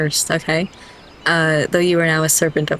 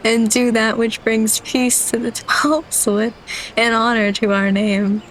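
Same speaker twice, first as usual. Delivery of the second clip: suppressing laughter; 4 semitones higher than usual. Real, not acted. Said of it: "I'm trying so hard not to cry".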